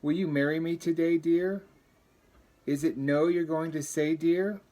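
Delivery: a lonely turtle begging the bagpipe to marry him; lovesick turtle voice. Acted. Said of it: "Said the turtle to the bagpipe".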